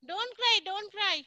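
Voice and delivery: soothing. Real, not acted. Teacher comforting a crying child.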